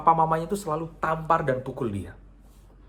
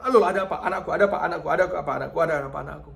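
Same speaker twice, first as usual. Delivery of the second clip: startled father, fading; 2 semitones higher, much faster than usual. Acted. Father woken by his crying daughter, startled. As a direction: wake up startled, then soften. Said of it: "dia kaget".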